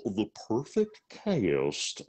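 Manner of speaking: slow, dopey cartoon voice; Goofy. Shown as a demonstration. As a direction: stretch it out like a cartoon goofball. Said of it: "I'm ninety percent goofy".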